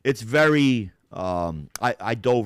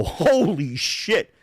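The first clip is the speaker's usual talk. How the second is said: slow, drawn-out amazement; stunned; 5 semitones higher, 4 dB louder, much slower than usual. Retold or imitated. Watching the Ring cam footage, slow stunned surprise. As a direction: let the shock stretch out. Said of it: "I go".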